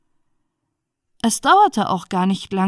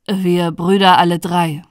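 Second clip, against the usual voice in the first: louder, set answer; lightly voiced eldest brother; 3 semitones lower, 6 dB louder than usual. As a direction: state it firmly, letting the end fall. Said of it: "sagte der Älteste".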